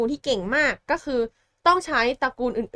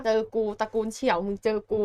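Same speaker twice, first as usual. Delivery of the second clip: vengeful vow; 2 semitones lower, 5 dB quieter than usual. Retold or imitated. Spurned heroine vowing revenge on his clan, quiet mock threat. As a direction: voice it as a grudge kept inside. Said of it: "ฝังใจไว้เลยว่า".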